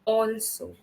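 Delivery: Also said with an open "aw" at the start, like "all"; teacher demonstrating the "aw" in Also; pronunciation model. Shown as a demonstration. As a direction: model Also, opening on a rounded "or" sound. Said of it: "is how we have to pronounce it".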